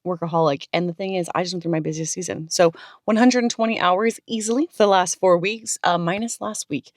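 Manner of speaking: raspy from a cold; rough, hoarse voice from being sick. Real, not acted. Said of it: "so if I sound like I smoke a pack a day".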